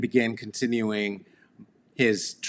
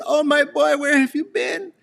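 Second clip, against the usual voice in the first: much higher, louder mother's voice; mother, tearful relief; 4 dB louder than usual. Retold or imitated. Mother greeting her lost son, in a high, tearful voice. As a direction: play the relieved, crying mom. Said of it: "she cried".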